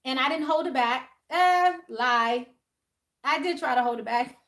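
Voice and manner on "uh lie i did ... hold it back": correcting herself. Real, not acted. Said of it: "Let me check myself".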